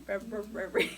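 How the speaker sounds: February with the r after b sounded out; Feb-ru-ary, each syllable as spelled; spelling pronunciation. Shown as a demonstration. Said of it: "it's weird".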